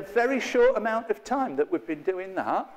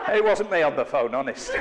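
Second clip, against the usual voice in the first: louder, giggling joke; mock denial through laughter; laughing; 3 semitones lower, 5 dB louder than usual. Real, not acted. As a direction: laugh as you deny it.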